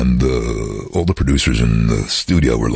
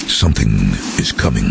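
trailer voice; 4 semitones lower than usual. Retold or imitated. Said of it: "And the first line was some".

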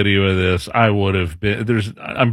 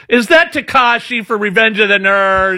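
mock kid question; 9 semitones higher than usual. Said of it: "and the kid goes".

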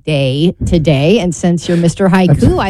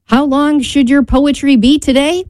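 measured, lilting rhyme recital; poem reading; 4 semitones higher than usual. Acted. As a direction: read out your homemade verse line by line. Reads own rhyming poem.

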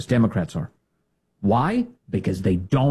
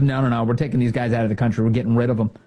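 brisk official; faster than usual. Retold or imitated. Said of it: "goes in there and goes".

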